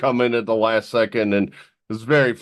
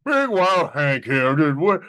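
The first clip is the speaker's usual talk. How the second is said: exaggerated Southern rocking-chair voice; full-on crazy Southern; 4 semitones higher than usual. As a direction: ham up a crazy Southern dad, pitch swooping high. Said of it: "full-on crazy Southern. So I just went".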